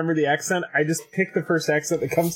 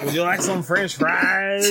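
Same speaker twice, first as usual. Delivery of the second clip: mock French accent; slower than usual. Mocking the game master's bad accent.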